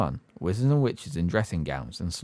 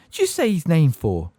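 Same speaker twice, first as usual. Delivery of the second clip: higher, louder alarmed cockney demand; alarmed shout; 8 semitones higher, 5 dB louder than usual. Acted. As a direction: keep the shock up. Stan still alarmed.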